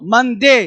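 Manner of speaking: मंडे with a firmly hit D; stress on the D. Shown as a demonstration. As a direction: punch the D in मंडे. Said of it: "डी पर stress". (मंडे में डी पर ज़ोर)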